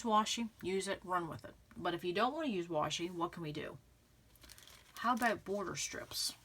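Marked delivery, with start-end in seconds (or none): 5.0-6.3 hushed, let them in on a secret; conspiratorial whisper; playful whisper. Acted. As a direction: whisper it like a tip. Teasing suggestion to viewers.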